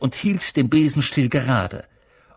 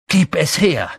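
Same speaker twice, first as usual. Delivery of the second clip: raised, higher-pitched demand; rufen; 5 semitones higher, 6 dB louder than usual. A narrator's reading. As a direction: call it out loudly as an order. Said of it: "rief Harry". (laut und fordernd gerufen)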